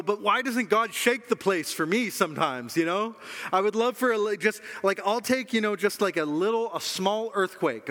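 mock complaining. Preacher voices congregant wanting a small earthquake, mock complaining.

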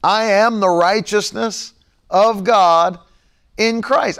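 slow, firm declaration with stress on "am"; slow preacher's declaration; bold confession. Shown as a demonstration. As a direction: proclaim "I am" deliberately. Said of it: "That's the scriptural position".

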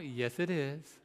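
measured courtesy; restrained polite answer. Retold or imitated. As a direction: hold back the retort and answer politely. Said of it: "You gotta be, you gotta".

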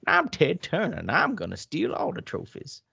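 a mock tycoon boasting; Ted Turner impression. Cohost corrects the Ted Turner voice, mild mock boast. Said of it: "a little more southern than that".

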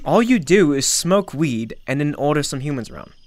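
put-on slipping into a British accent. Asking Jay about his farming, sudden British accent. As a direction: lapse into put-on British speech. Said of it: "Why are you British?".

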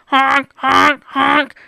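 goose honking. Acted. Goose honks in panic.

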